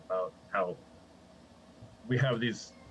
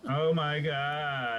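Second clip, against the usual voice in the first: put-on slow drawn-out valley girl; 3 semitones higher, much slower than usual. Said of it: "let's practice our valley girl voices".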